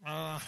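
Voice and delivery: low growled groan; a groggy, grumbling growl; grumpy growl. Retold or imitated. Husband woken by his wife in the night, grumpy growl. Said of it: "I kinda growled at her".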